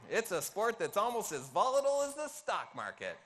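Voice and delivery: loud, lightly put-on stand-up comedian delivery; Seinfeld accent. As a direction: read it like a hammed-up stand-up monologue. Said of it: "read this in a Seinfeld accent".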